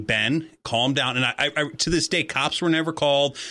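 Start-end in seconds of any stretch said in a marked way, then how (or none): 0.0-1.2 slow, even imitation of the principal; very calm voice. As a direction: gently talk a child down, unhurried. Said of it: "with a very calm voice saying".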